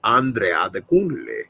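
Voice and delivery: "Andre Adekunle" said smoothly as AHN-dray ah-deh-KOON-leh; smooth, sure "Andre Adekunle"; confident pronunciation. Shown as a demonstration. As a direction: roll out "Adekunle" with easy confidence. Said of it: "I got hooked on phonics".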